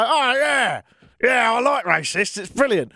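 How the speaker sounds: high, drawn-out fake delight; mock enthusiasm. Host acting someone who would applaud racists, mock enthusiasm. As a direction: gush in a high voice as a pretend fan. Imagined approval of racist remarks.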